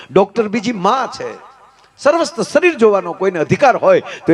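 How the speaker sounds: high, emphatic oratory; forceful preaching. Real, not acted. Preacher warns audience about officers and doctors, high forceful preaching. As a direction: proclaim it to the whole hall.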